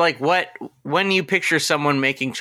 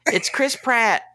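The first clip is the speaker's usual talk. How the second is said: high, drawn-out presenter's introduction; mock awards announcer; 8 semitones higher than usual. Host announcing a celebrity presenter at an awards show, mock grand. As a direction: build up the name like a show host.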